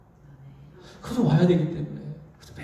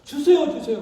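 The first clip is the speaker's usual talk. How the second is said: put-on desperate baby cry; 3 semitones higher than usual. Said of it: "아주 자지러듯이".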